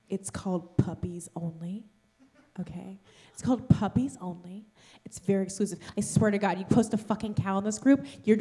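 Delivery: 속물 같은 여자 흉내; mimicking snobby girl. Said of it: "And she's like".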